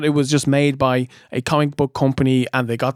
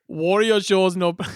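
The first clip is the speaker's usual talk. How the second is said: put-on failed Arnie accent; 2 semitones higher than usual. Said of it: "you can try it again".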